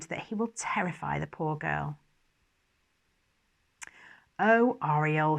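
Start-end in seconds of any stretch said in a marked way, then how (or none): 4.4-5.4 slow, low and offhand; dismissive. Acted. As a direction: brush him off with a sigh. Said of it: "he said dismissively".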